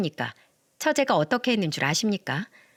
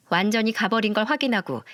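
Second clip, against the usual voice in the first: ordinary delivery, nothing marked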